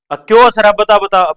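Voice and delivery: hammed-up angry teacher demanding an answer. Teacher demanding why laughing.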